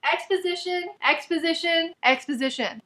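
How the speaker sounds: "exposition" repeated as a list, high twice, then falling; "exposition" spaced out evenly in mock boredom; mocking repetition. Real, not acted. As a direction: chant "exposition" tediously, dropping on the last.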